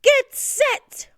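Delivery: high, loud starting call; coach's bellow. A narrator's reading. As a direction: bellow the command across a pool. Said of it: "bellowed the coach".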